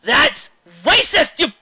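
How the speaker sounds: high, loud, very slow wail; mock outrage. Reviewer mock-accuses the kiss, high slow wail. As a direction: stretch the accusation out in fake horror.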